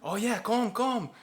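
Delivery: high, exaggerated Asian Quebecois accent impression; clumsy imitation of an Asian Quebecois accent; bad Asian Quebecois accent. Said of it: "G S P was just like".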